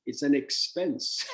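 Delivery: it's AN expense, slowed and stressed. Shown as a demonstration. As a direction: lean on an, slow and deliberate. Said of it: "so when your money leaves you".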